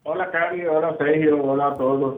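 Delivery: distant speakerphone sound. Real, not acted. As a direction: caller on speaker in the bathroom. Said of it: "¿Y por qué estamos nosotros en altavoz".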